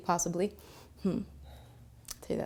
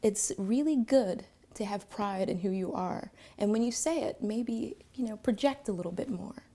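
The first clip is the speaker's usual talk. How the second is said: gentle; 2 semitones higher than usual. Retold or imitated. Counselor gently encouraging a nervous teen. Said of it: "very carefully and very gently and said".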